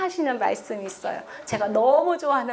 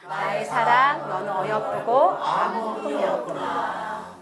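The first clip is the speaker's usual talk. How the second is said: slow reading aloud; 4 semitones lower, slower than usual. Shown as a demonstration. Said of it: "다시 시작".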